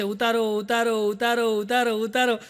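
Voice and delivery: slowish machine-like repeated command; slow mechanical nagging ઉતારો; talking cooker. Pretend. Cooker telling owner to take it off, machine-like. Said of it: "એમ આમાં કુકરે બોલશે".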